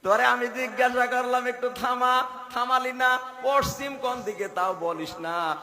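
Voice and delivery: high, loud mock telling-off; acted angry scolding. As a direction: play an indignant preacher berating a bus helper. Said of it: "উনি তখন রেগে গেছে".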